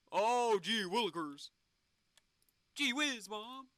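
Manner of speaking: lightly voiced old-timey kid; a hint of a gosh-golly boy; wholesome 1950s kid. Corny old-time exclamations.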